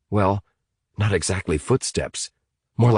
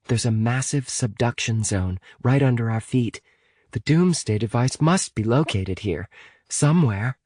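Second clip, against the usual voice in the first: put-on higher-pitched girl explaining; earnest Amy; 5 semitones higher than usual. Amy telling Evan about the doomsday device, earnest.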